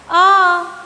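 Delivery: drawn-out letter अ said clearly; teacher naming the letter अ for children. Shown as a demonstration. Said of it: "ये हो गया".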